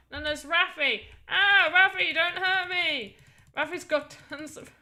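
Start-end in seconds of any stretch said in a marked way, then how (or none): 1.3-3.2 high, loud mock fright, drawn out; playful pleading. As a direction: beg in pretend terror. Pleading with attacking game character.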